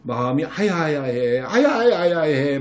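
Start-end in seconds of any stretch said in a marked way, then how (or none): 1.4-2.6 put-on slow, babyish ouch ouch; hurt baby talk. Shown as a demonstration. Mom telling her child her heart hurts, slow baby talk. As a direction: stretch it out like a hurt mom to a toddler. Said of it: "막 이렇게 해서".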